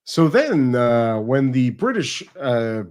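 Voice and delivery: mock documentary voice, lifting into a Frenchified "France"; lightly acted narrator with sudden French-accented "France"; changed-accent presenter. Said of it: "her accent completely changed".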